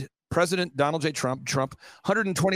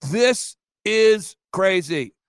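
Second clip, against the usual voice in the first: awed; 5 dB louder, much slower than usual. Retold or imitated. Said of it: "I'm going".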